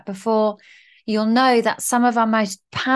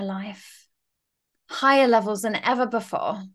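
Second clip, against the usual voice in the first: energized declaration. Shown as a demonstration. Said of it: "say it one more time".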